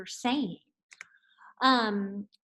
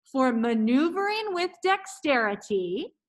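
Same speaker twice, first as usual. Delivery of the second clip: careful articulation. Shown as a demonstration. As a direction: enunciate every syllable clearly. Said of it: "So repeat after me".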